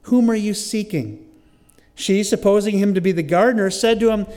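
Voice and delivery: projected, measured Bible reading; scripture reading. Acted. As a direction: read the passage aloud to a congregation. Reads scripture aloud.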